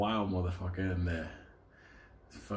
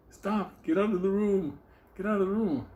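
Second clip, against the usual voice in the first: much higher, louder panicked scream; 11 semitones higher, 5 dB louder than usual. Retold or imitated. The half-naked guy screaming at Benny to get out. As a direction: shriek at the intruder to leave. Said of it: "He starts screaming".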